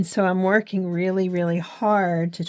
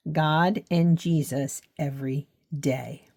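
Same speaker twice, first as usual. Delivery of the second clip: deliberate repetition. Real, not acted. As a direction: give each word of "God and Jesus every day" its own weight. Repeats the reminder word by word.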